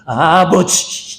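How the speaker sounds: one word dragged out very slowly, faltering; stammering fear. Retold or imitated. Jacob caught before his father, slow trembling stammer. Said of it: "말까지 더듬었어요".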